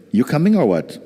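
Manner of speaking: high, laughing mock impatience; the impatient attention. Teacher voices attention nagging the student, laughing and high. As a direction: tease it like a friend waiting at the door. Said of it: "Will the attention say".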